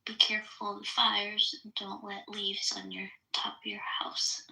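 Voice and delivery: whispering into an echo mic; toy echo microphone. Real, not acted. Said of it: "it's an Echo Mic".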